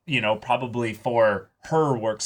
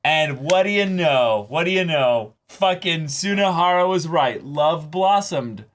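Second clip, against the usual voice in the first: higher and louder, thrilled; excited exclamation; 6 semitones higher, 4 dB louder than usual. Real, not acted. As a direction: burst out with delight. Excited exclamation about the show.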